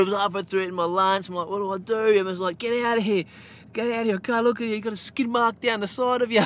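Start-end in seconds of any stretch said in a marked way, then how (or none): 1.5-2.2 high, loud, helpless plea; panicked cry. Retold or imitated. Dad asking wife for help mid-lunch, loud panicked plea. 2.6-6.4 high, loud mock shriek of disgust; disgusted wife. Wife telling husband to leave the kitchen, loud disgusted shriek.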